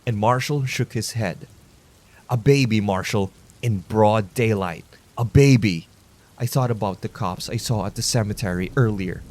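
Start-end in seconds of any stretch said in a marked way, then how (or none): 2.3-5.9 outraged. Acted. Vigilante accusing in outrage.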